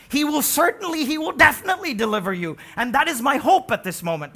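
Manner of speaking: loud, high certain declaration; loud ringing assurance; emphatic confident cry. Acted. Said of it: "but he's saying".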